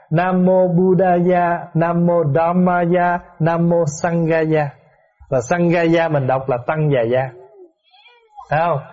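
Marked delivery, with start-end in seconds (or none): 0.1-4.7 slow, syllable by syllable Sanskrit "Nam Mô Buddhaya"; Sanskrit original. Shown as a demonstration. Monk recites the Sanskrit original for the congregation, slowly. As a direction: intone "Buddhaya, Dhammaya, Sanghaya" slowly and clearly. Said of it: "phiên âm từ tiếng Phạn".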